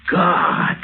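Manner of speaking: frightened gasp. Acted. Frightened realisation of danger.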